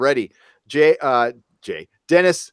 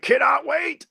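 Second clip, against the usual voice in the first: cannot wait, yelled high with glee; excited shout; 13 semitones higher, slower than usual. Real, not acted. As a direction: burst out with excitement. Host excited about upcoming shows.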